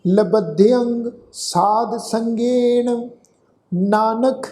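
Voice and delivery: slow, drawn-out sacred recitation; scripture recitation. Shown as a demonstration. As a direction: recite slowly, holding the long vowels.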